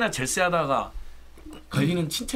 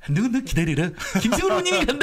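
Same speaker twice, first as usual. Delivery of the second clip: switching impression voices; 10 semitones higher, faster than usual. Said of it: "가끔 저기 성대모사도 하셔야 된다고".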